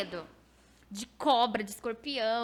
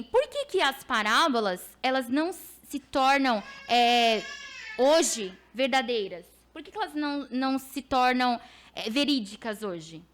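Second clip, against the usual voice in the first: tearful; 6 dB louder than usual. Real, not acted. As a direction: voice catching with emotion. Voicing God's question, voice breaking.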